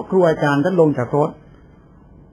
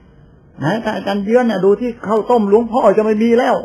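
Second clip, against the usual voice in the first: high, loud, drawn-out retold fussing; mock clamouring complaint; 7 semitones higher, 6 dB louder, slower than usual. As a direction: imitate someone kicking up a fuss. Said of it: "ไม่มีอะไรฉันก็ไปโวยวายใส่อาตมา".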